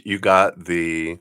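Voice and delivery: slow, hushed ASMR-like murmur. Real, not acted. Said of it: "A S M R".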